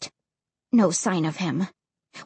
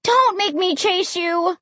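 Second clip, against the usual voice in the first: high-pitched frustrated warning; raised, exasperated threat; exasperated yell; 8 semitones higher than usual. A narrator's reading. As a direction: call after the dog, fed up. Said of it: "I yelled, exasperated".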